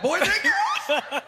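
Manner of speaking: very high, loud, drawn-out question; voice going up. Retold or imitated. Storyteller shows his wife and crowd his reaction, voice shooting up. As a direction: squeak it out slowly in mock shock. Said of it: "My voice went up like that".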